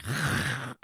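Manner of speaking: short, rough dog noise; snarly mock dog attack noise; imitated dog snarl. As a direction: imitate a spooked dog lunging at the ladle. Imitating the spooked dog biting ladle.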